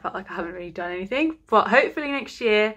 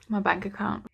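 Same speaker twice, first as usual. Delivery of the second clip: whisper; 3 dB quieter than usual. Real, not acted. Joking about money spent.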